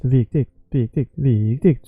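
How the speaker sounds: VIKTIGT with a long VIK, short TIGT; first syllable stretched. Shown as a demonstration. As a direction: draw out the start of each "viktigt". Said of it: "keep the proportion".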